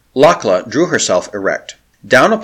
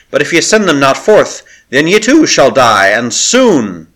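threatening proclamation; 4 semitones higher, 5 dB louder than usual. Acted. Priestess threatens the besieged.

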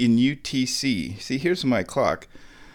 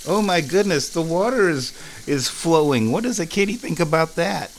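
higher, gushing pet talk; mock amazement; 5 semitones higher than usual. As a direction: make a big show of wonder for a kitty. Tempting cat with running water.

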